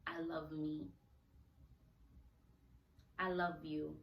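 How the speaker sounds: gentle, soft I love you; soft self-affirmation. Shown as a demonstration. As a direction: say it tenderly to yourself. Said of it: "keep telling yourself".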